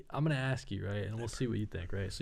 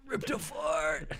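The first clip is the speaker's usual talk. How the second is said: sudden realization; 5 semitones higher, slower than usual. Retold or imitated. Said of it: "I was like".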